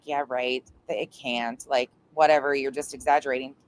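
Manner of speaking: lightly mocked skepticism, low and offhand; low, quiet imitation of disbelief; dismissive quote. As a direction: imitate a friend brushing it off. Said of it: "I'd be like".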